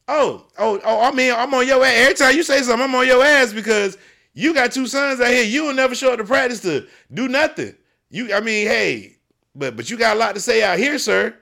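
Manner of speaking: a coach snapping back at a critic in the stands; heated retort. Retold or imitated. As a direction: call the loudmouth dad out, hard. Retold confronting a player's father.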